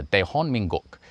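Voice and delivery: Dehon Minguk said the Korean way; native pronunciation. Retold or imitated. Voiceover artist recalls his take for South Korea, Dehon Minguk in Korean pronunciation. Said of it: "So for South Korea, I said".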